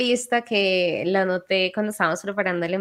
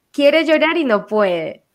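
mocking phrase; 5 semitones higher, 4 dB louder, slower than usual. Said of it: "otra por ahí".

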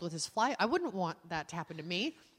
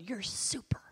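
whisper; 5 dB quieter, slower than usual. Retold or imitated. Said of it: "He thought I said".

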